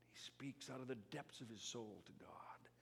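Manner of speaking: hushed awe. Real, not acted. Preacher hushes on Job's prayer.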